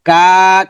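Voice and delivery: কা drawn out; long কা. Shown as a demonstration. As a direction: stretch the vowel of কা. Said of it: "কাফটা লম্বা হবে".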